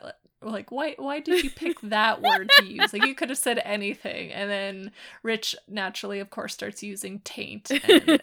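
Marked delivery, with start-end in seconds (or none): 0.7-4.3 mock upset. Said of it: "Rob kind of being upset".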